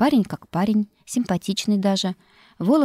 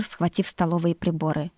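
usual speaking voice

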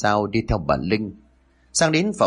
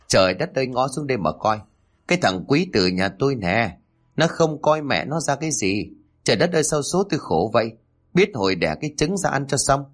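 higher, hammed-up wailing like a sulking child; wailing lament; 4 semitones higher than usual. Mother-in-law wailing at her son for siding with his wife, theatrical. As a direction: beat the chest and wail about fate, overdone. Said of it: "nằm khóc như một đứa trẻ ăn vạ".

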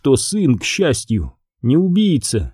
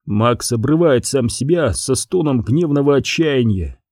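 usual speaking voice

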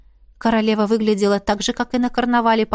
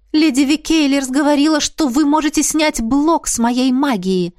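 higher, louder eager cry; eager exclamation; 5 semitones higher, 3 dB louder than usual. A narrator's reading. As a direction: blurt it out with new hope. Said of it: "воскликнула я". (взволнованный возглас)

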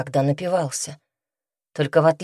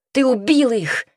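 high, loud accusing scream; 7 semitones higher, 4 dB louder than usual. A narrator's reading. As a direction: hurl it at him, stress on убил. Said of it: "закричала она".

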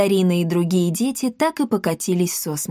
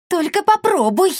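much higher, squeaky nervous threat; 11 semitones higher, 3 dB louder than usual. Acted. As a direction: bluff a threat while scared. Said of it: "нервно пригрозил он". (нервная угроза)

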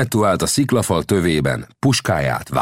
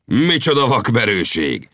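higher-pitched amazed cry; astonished exclamation; 6 semitones higher than usual. A narrator's reading. Lang exclaims at Winnetou's daring shot, amazed. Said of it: "kiáltott föl Lang".

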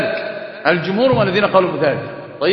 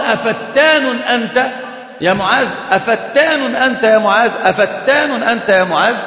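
stern rebuke; 4 semitones higher, slower than usual. Retold or imitated. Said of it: "بغضب شديد".

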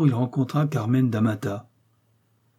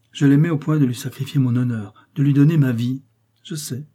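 passionate confession; 3 dB louder than usual. Acted. Confession of desperate love.

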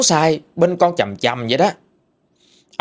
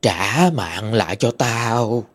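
slow, drawn-out haunting wail; moaning ghost; slower than usual. Acted. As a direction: moan it slowly, stretching words like a ghost. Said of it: "Còn rên rỉ là".

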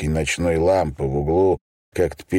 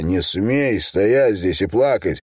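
furious accusations; 6 semitones higher than usual. Acted. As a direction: hurl every accusation at him. Son yells accusations at father.

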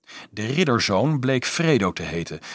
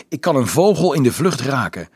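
higher, louder proud boast; happy; 5 semitones higher, 5 dB louder than usual. A narrator's reading. Little archer boasting to Dolf about his aim, happy. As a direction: show off gladly. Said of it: "zei hij blij".

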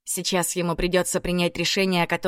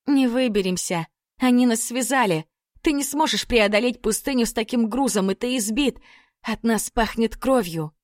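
higher frightened pleading; panicked pleading; 5 semitones higher than usual. Acted. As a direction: voice pitched up in fear. Lilya panics, high.

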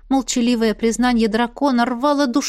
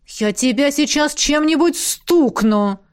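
slow, groaning mock threat; exasperated groan; 5 semitones higher, 3 dB louder, slower than usual. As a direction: moan it in exasperation. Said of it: "простонала Элисандра".

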